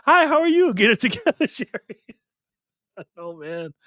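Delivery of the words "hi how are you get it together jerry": jokey high falsetto greeting; teasing high voice for a viewer; three octaves higher. Pretend. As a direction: pitch way up into a silly falsetto. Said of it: "three octaves higher than normal voice".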